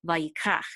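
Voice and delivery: vayikach with the weight on kach; spoken vayikach, accent at the end; stress on last syllable. Shown as a demonstration. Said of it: "accent is going to be on the last syllable".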